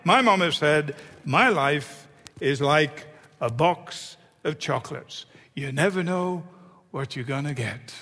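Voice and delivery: Forrest Gump. Acted. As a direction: do Gump's unhurried Southern accent, fading at the end. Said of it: "How do you like the accent?".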